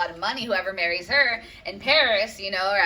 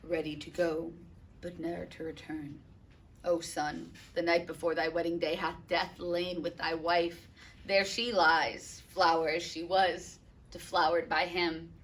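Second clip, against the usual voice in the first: lightly voiced grieving father. Capulet answers Paris, grieving.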